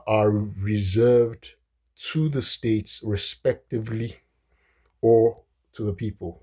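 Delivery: slow, measured reading of the founding text; formal recitation. Shown as a demonstration. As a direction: recite it word by word like a solemn quote. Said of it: "I'd like to say it in the way the framers wrote it".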